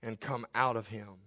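low, slow, soft stern rebuke; Jesus rebuking the demon in the synagogue. Acted. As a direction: calmly command the demon to be silent. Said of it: "Jesus rebuked him, saying".

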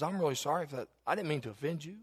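quiet, kind and humble; soft gracious apology. Retold or imitated. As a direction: apologize gently to the angry driver. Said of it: "Very kind, gracious".

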